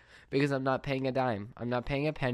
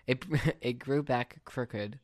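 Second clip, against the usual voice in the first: laughing through the words, slowly; slower than usual. Real, not acted. Repeating the botched nose story to listeners, laughing. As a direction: let a laugh break in as you repeat it.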